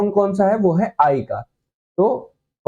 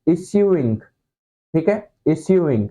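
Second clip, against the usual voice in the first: slow demo; much slower than usual. Shown as a demonstration. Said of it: "teacher spells out the word".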